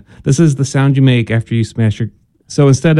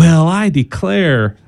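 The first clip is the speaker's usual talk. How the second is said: put-on southern accent; 4 semitones higher, much slower than usual. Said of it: "your voice getting southern sounding".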